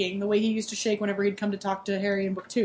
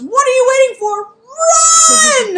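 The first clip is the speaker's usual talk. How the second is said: much higher, louder yell to run; Harry yelling at the group, much louder; shouted order; 12 dB louder, slower than usual. Acted. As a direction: bellow it at the whole room. Harry yells at everyone to flee.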